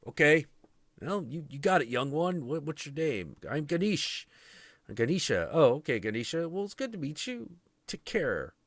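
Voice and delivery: high, sweet fawning voice of passing gods; chirpy high-pitched gods cooing at the kid. Retold or imitated. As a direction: pitch up high and gush over the boy.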